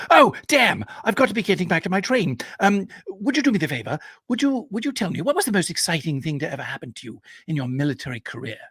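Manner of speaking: high and quick, rushing to catch a train; fast, high, starstruck young Englishman; young officer hurrying back to his train, high and fast; hurried eager young man. Retold or imitated. Young officer checks watch, hurries.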